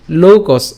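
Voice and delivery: "লোকস" carried right through to a clear s; final-s demo. Shown as a demonstration. Teacher shows where the word ends, final-s demo. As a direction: finish "লোকস" firmly on the s. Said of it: "দন্ত স পর্যন্ত নিয়ে আসবো".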